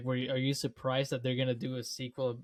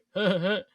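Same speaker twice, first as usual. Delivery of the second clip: imitated chortle laugh; 4 semitones higher, 5 dB louder than usual. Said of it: "chortle laugh".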